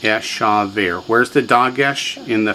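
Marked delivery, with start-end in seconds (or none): 0.0-1.0 "Eshaver" slowly, every vowel full; slow teaching model of "Eshaver"; three full syllables. Shown as a demonstration. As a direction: give "Eshaver" three clear, unhurried syllables. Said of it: "Three full syllables".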